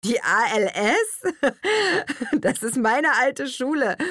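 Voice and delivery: laughing out the words. A narrator's reading. Sebastian laughing that she teaches at his school. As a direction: burst into laughter mid-line. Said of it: "brach in lautes Gelächter aus".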